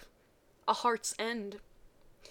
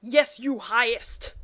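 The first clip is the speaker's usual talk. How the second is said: mock servant; 8 dB louder, slower than usual. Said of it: "with a bow".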